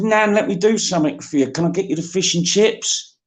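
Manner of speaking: high, pleading plea to his dying nan. Retold or imitated. Grandson begging his dying nan, high and pleading.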